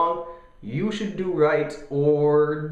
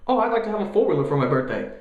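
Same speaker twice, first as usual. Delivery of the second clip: put-on kid voice; 6 semitones higher, much faster than usual. Kid asking for gift.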